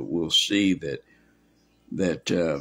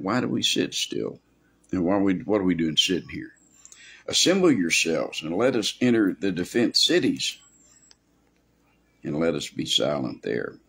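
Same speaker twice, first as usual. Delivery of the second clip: raised, emphatic mock quotation; 3 semitones higher, 4 dB louder than usual. God mocking the people who sit still, mocking. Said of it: "he's mocking them, saying".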